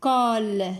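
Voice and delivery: "École" as é, pause, then a held cole; syllable by syllable. Shown as a demonstration. Teacher showing two syllables, syllable by syllable. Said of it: "Deux syllabes".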